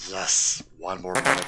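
put-on creature voice; Gollum. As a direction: answer as a wretched little creature. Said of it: "my Gollum accent".

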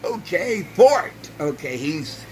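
mocked New York accent. Vlogger imitating a man mocking the president's accent, high mock New York. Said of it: "he had a New York accent".

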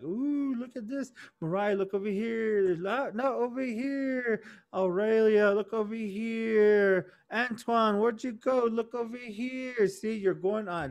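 lightly voiced teasing lure; birds luring the boys. Birds luring the boys, a light coaxing call. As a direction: coax them sing-song to look over here.

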